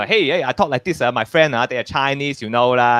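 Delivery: lightly hammed-up Asian comedy accent. Shown as a demonstration. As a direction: put on a jokey Asian accent, as in an old bit. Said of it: "Asian accents was still th-, still a thing".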